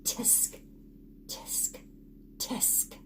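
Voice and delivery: soft tutting tisk; monkeys tutting. Acted. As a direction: cluck it back quietly like teasing monkeys.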